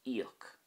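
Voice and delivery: "Íoc" opening on a long "ee", then uck; long I fada. Shown as a demonstration. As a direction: stretch the "ee" starting "Íoc". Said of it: "I fada kicking in there".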